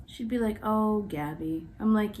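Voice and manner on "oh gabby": lower, slow, weary; imitating annoyed director. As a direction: sigh the name out, fed up on my behalf. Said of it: "this is what she would do whenever she'd get mad".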